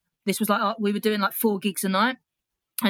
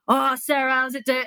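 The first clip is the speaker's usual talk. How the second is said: effusive greeting; 6 semitones higher than usual. Retold or imitated. Famous comic greets her at bar.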